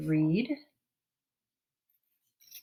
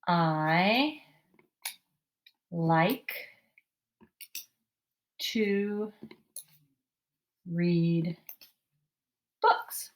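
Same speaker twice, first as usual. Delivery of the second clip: word by word; much slower than usual. Shown as a demonstration. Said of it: "with an exclamation point".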